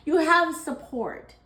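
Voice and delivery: high, slow words through laughter; laughing. Real, not acted. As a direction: say it slowly while giggling. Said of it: "Sorry, I'm laughing".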